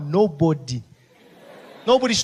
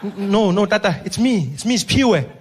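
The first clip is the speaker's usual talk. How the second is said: louder, urgent insistence; anxious paramedic; 4 dB louder than usual. Acted. Paramedic insisting to Mandela, loud and hurried. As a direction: hurry to set the old man straight.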